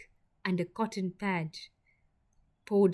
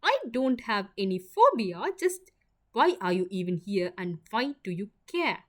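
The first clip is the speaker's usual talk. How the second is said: higher, louder flustered denial, voice jumping up; squirming; 3 semitones higher, 5 dB louder than usual. Acted. Ivy denies her antiseptic phobia to him, flustered and squirming. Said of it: "Her voice was squirming".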